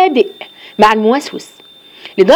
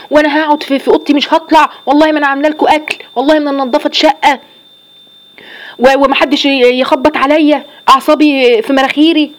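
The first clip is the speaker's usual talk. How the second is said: fed-up grumble; 4 semitones higher than usual. Retold or imitated. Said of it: "واحده قايمه متضايقه وزهقانه".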